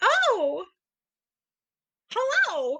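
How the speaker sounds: very high, squeaky cartoon voice, swooping way up. Reacting to another speaker finding a Kindle sale, in a Mickey Mouse voice. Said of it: "I just turned into Mickey Mouse".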